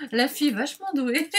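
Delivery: said between bursts of laughter; laughing at yourself as you speak; amused self-mockery. Real, not acted. Vlogger mocking her own skills to viewers, laughing.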